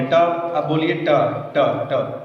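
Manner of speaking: ट with the tongue curled back to the roof of the mouth; retroflex ट demo. Shown as a demonstration. Teacher sounding ट for students, slow and deliberate. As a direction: say ट slowly, tongue just above the palate. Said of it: "हम लोग ट बोलेंगे".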